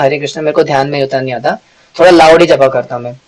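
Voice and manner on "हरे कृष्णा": under-the-breath japa. Shown as a demonstration. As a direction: say Hare Krishna quietly, as if to yourself. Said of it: "अगर मैं ऐसे ऐसे करता हूँ ना". (दबी आवाज़ में जप)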